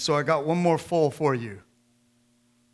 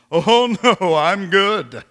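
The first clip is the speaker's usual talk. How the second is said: louder, laughing polite refusal; laughing brush-off; 5 semitones higher, 10 dB louder, much slower than usual. Retold or imitated. Waiter turning down prayer, laughing it off. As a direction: wave it off with a laugh.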